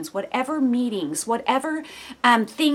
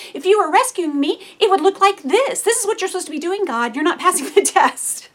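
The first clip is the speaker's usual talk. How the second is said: higher, louder indignant demand; demanding of God; 7 semitones higher, 4 dB louder than usual. Retold or imitated. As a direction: confront God with your terms. Demanding test put to God.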